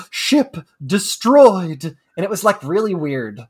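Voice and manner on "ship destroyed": slow flat robotic announcer; drawn-out monotone game voice. Retold or imitated. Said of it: "yell at you in this monotone voice".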